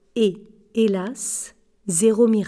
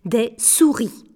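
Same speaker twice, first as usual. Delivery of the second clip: slow, mildly tired correction; understated weariness, drawn out; a little weary; slower than usual. Acted. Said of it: "corrigea Émile un peu las".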